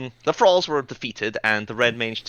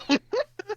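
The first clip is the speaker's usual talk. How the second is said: gleeful laugh; 3 dB quieter than usual. Real, not acted. Laughing after good roll.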